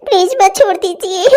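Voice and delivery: put-on girl pleading to mother in tears. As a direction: beg weakly through tears. Girl begs, softer.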